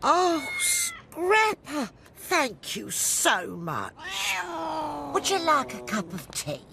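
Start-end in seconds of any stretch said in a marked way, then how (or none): 0.1-3.9 slow, gushing relief and thanks; relieved gratitude. Acted. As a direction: draw out the words with grateful relief. Relieved owner gets cat back.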